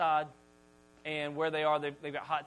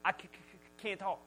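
hard stammer on the opening consonant; stutter; 5 dB quieter than usual. Acted. Moses telling God he is unfit, stuttering. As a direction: stick and repeat, then push the word out. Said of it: "Moses had a stutter".

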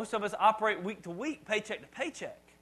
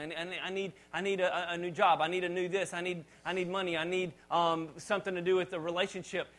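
needy prayer. Retold or imitated. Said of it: "Sometimes we start saying".

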